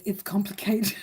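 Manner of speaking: breathy whisper of it's complicated; a playful whispered aside. Shown as a demonstration. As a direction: whisper it like a secret status update. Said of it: "like an awkward relationship status".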